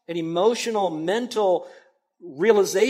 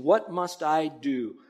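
earnest plea; much slower than usual. Retold or imitated. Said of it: "That conviction".

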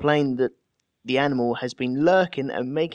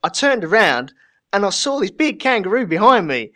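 loud, high mock Australian accent; playful try at an Australian accent; attempted Australian accent; 5 semitones higher, 6 dB louder than usual. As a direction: have a go at an Aussie accent, hammed up. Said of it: "How do you do the Australian accent? Let me try".

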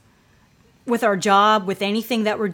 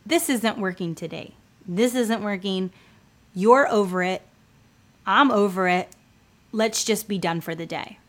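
gentle giving up; 2 semitones lower than usual. Retold or imitated. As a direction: let them off gently. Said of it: "if I just wanted to say".

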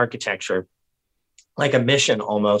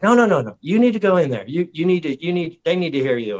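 higher-pitched urging, imitated; encouraging insistence; 4 semitones higher than usual. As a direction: push them to go in.

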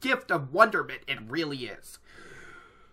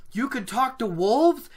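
acted wonder, high with rising end; Perrin; 7 semitones higher than usual. Shown as a demonstration. Perrin amazed by talking to wolves, acted wonder. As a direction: marvel at it, voice lifting into a question. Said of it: "said Perrin in wonder".

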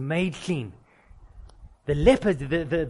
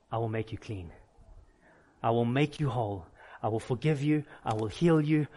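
lower, softened words of comfort; tender reassurance; 5 semitones lower, 3 dB quieter than usual. Acted. Jesus speaks to the unclean, tenderly reassuring. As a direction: drop low and gently promise.

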